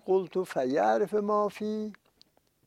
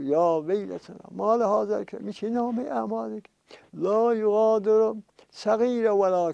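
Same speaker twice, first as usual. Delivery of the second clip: higher, mildly wailing retold cry; imitated lament; 4 semitones higher than usual. Sinners lamenting that the book leaves nothing out, mild imitated wail. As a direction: voice the sinners' dismay with a touch of wail.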